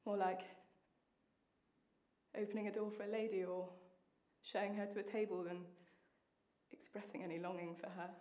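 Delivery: soft, low musing; reflective. Acted. Recalling the lover's indifference, quiet and reflective. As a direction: think it through quietly, with pauses.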